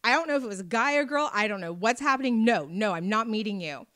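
loud, fast flustered no-no-no; mock panicked refusal; emphatic refusal.

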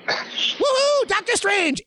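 very high mock cheer; heckler whoop. Imitating the front-row jackass during trailers, whooping. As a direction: whoop like an obnoxious fan. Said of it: "who yells out things like".

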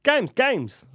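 high, slow, hyped game intro; excited announcer. Acted. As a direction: sell the game night hard.

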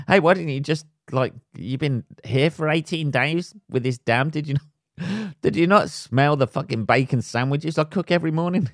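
a neighbour teasing the lost man; mock neighbour. Neighbour teasing the lost man, incredulous mock scolding.

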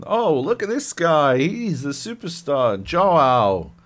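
lightly hammed-up admiring announcer; mock fanfare. Mimics game characters hailing him.

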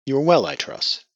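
a cool, formal father checking on her; cold patriarch. Acted.

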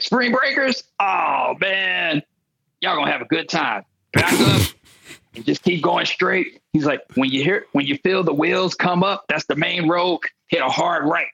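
put-on a light, high-pitched voice for the friendly drunk; lightly voiced drunk local.

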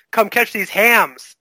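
slow, drawn-out taunt; trash-talk catchphrase. Shown as a demonstration. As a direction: savour each word like a boast. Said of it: "which is my new catchphrase".

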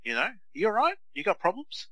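high, mocking baby-talk taunt. Mocking the rude kid who kicked him from the car, high taunting voice. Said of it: "yeah, I said".

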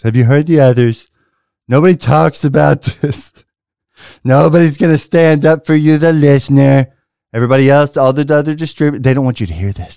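loud conspiratorial rant; paranoid prepper warning. Pretend. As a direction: warn them like a conspiracy theorist. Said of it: "That was a little effect".

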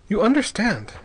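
a stern edge on the words; harsh. A narrator's reading. Ortiz warning Bell of his duty, mildly harsh. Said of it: "he said harshly".

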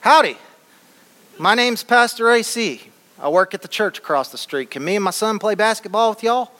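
a hint of a Texas twang, greeting strangers; Texan accent. Dad introducing himself to the players, in a mild Texan accent. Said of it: "in his Texan accent".

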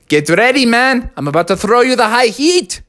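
high, swaggering pitcher voice; cocky pitcher lizard. Acted. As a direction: warn him the fastball's coming. Pitcher Ricardo taunts Bubby.

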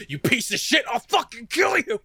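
sudden high mock yell at Joey. Tristan greeting awake Joey, hammed-up high shout. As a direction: shout the threat in a hammed-up burst. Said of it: "being like".

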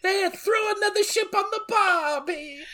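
high, hammed-up Australian accent; laconic outback drawl. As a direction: ham up an Aussie barbie line. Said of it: "our one Australian fan".

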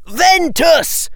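high, slow spell cry; spell shout. Acted. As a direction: fling the spell out.

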